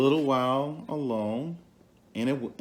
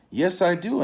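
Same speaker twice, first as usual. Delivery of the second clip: Elephant's voice; 7 semitones higher, 7 dB louder than usual. Acted. Elephant answers Anansi.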